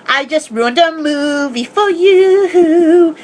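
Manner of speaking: slow, fake-sobbing lament; mock crying. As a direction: whine it like pretend tears. Mock lament after cheering.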